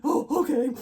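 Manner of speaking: sobbing through a small reply; crying. Retold or imitated. Woman pulled over by a cop, answering while bawling. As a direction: choke it out mid-bawl, laughing at yourself. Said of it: "I'm still bawling and crying".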